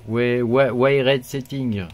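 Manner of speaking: English said with a real French accent; thick French accent. Real, not acted. Tech host reading a menu label, thick French accent. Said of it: "avec mon super accent bien pourri".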